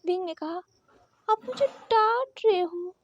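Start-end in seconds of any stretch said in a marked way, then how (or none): 1.3-2.9 slow, sulky pout with a rising whine; pouting sulk. Acted. Wing sulking at the president over being scolded, pouting. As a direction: pout and complain he's scolding you. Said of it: "फिर से अपना मुंह फुला लिया".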